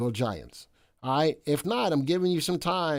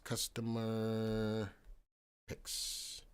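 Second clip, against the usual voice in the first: whispered; 4 semitones lower, 11 dB quieter, much slower than usual. Real, not acted. Typing the list name.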